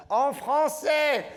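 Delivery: high, loud mock heckler yelling; heckler shout. French heckler in the audience yelling at the comedian, high and loud. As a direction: bark it out like a heckler in the crowd. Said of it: "I always have someone".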